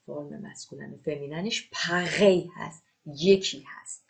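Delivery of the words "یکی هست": ordinary talk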